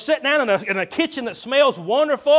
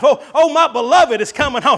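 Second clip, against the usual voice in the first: excited bride; 4 dB louder than usual. Acted.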